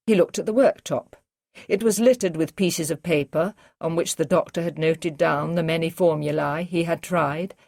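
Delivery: plain reading voice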